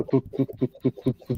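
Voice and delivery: soft thumping heartbeat noise; heartbeat imitation. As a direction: tap out a quiet heartbeat. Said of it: "tipo um barulho de coração".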